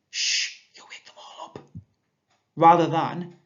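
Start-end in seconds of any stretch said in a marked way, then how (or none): 0.1-1.6 whisper. Shown as a demonstration. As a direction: hush them so nobody wakes. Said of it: "Madeline whispered".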